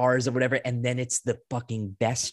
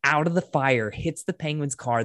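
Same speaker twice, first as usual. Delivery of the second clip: excited; 4 semitones higher, 4 dB louder than usual. Real, not acted. Excited retelling of car chase.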